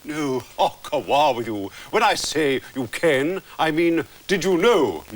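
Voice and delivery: overdone fake Scottish burr; hammy Scottish accent. Mister McTavish congratulating the laddie, hammy Scottish accent. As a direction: ham up a patient's Scottish accent. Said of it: "rest that accent".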